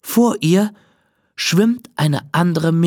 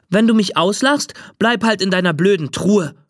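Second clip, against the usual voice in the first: mildly cross call; 3 semitones higher than usual. Acted. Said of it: "ruft sie".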